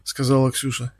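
ordinary delivery, nothing marked

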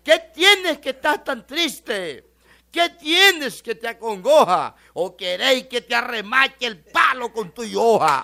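loud, slow declamation, laughing by the end; garbled pretty line. Retold or imitated. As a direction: bellow the half-forgotten poem. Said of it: "se le olvidó y le dice".

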